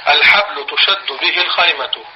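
repeated slowly, word by word; teacher repeats the definition slowly for notes; slow dictation. Shown as a demonstration. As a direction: dictate it again slowly for students to write. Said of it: "طيب، هرجع".

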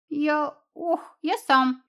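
high, pained then proud little voice; lightly voiced fox cub, proud; proud squeak. Bruised fox insisting to the cat, proud squeak. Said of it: "гордо пискнул зверёныш".

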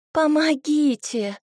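a woman's slow, high, loud call for help; frightened maiden calling from the forest; cry for help. A narrator's reading. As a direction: scream for help from the woods. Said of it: "женский голос".

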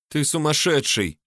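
plain reading voice

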